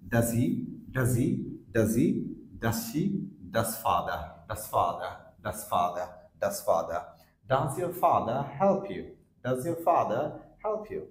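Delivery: "does" as /dʌz/ joined to the next word; linked "does". Shown as a demonstration. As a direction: run "does" into "he" with the h softened. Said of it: "strong sound এবং উইক sound একই রকম". ("does" পরের শব্দের সাথে জুড়ে)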